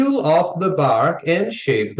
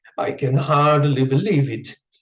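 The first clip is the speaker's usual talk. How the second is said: ordinary delivery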